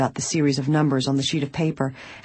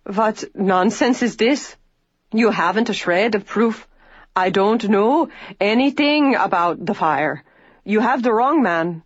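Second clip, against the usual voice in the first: lightly voiced man in indignant protest, slow at first; a hint of Joe Swenson's anger at the troopers; angry denial; 4 semitones higher than usual. A narrator's reading. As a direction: flare up at an unjust accusation. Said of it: "a flush of anger mounted to his cheeks".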